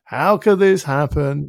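mock self-pity. Mocking himself sulking over his wife in the kitchen, slow whine. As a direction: ham up the sulk, drawn out. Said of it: "feeling sorry for myself".

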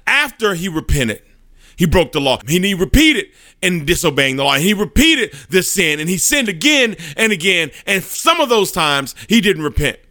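high-pitched, acted indignant accusation; piling up charges in mock fury; furious. Satan slams the desk and accuses the sinner, furious. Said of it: "in furious, he slams his hand".

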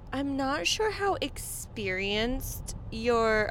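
slow, drawn-out doubting tone; dismissive. Retold or imitated. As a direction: question their experience slowly, dismissively. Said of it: "was a little dismissive".

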